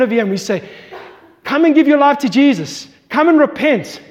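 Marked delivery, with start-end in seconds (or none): 1.4-4.0 altar call. Real, not acted. Preacher calling listeners to give their lives to Jesus, raised and urgent. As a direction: call the congregation forward.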